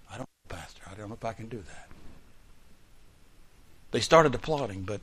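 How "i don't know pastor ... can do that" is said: much softer, lower hesitant mumble; timid mock reply. Reluctant believer to the pastor, soft and low hesitation. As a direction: shrink back from the ask.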